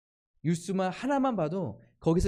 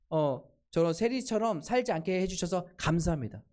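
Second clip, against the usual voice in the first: smug self-praising prayer, a little higher with slow drawn-out words; proud prayer; 4 semitones higher than usual. Retold or imitated. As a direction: brag to God about your good deeds. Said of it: "얼마나 교만한 기도입니까?". (교만하게 자랑하는 기도)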